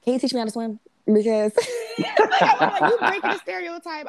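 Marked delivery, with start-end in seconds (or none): 1.1-4.1 high laughing voice. Real, not acted. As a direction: laugh through the words. Laughing at her own joke.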